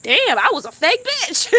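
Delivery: high, loud mock lament; mock regretful soul. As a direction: wail it like a soul ashamed of itself. Imagined soul's regretful verdict.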